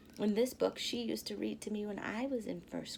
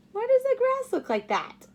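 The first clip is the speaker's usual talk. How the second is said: laughing; 12 semitones higher, 12 dB louder than usual. Real, not acted. Laughing at the picture.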